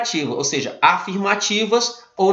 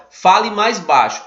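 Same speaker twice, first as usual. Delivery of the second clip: firm command; 3 semitones higher, 3 dB louder than usual. Shown as a demonstration. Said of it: "geralmente sugere uma ordem".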